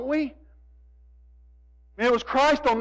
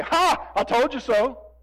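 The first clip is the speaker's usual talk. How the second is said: mocking preacher. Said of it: "prosperity gospel preachers at this point would look at me and say".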